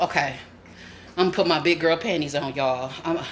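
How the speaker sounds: low, hurried self pep talk; bracing herself. Real, not acted. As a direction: drop low and talk yourself into it.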